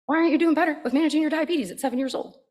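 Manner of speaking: high, mock-scolding talk to a small child; condescending scolding. Adult scolds a seven-year-old over his diabetes, condescendingly. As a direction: lecture the child, patronizing and high. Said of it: "We're not like".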